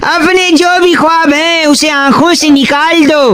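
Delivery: measured couplet delivery; mock shayari recital. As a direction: recite the verse with poetic pauses. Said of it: "एक और अर्ज किया है".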